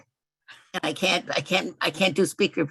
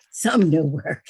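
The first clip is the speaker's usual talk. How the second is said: "some" punched louder, then a laugh; stress on some; 6 dB louder, slower than usual. Real, not acted. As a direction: lean hard on "some" as a correction. Corrects overpromise of new work.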